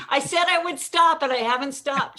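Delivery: half-laughing, high and loud through the joke. Real, not acted. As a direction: crack up mid-sentence at your own gag. Joking about his own one-liners.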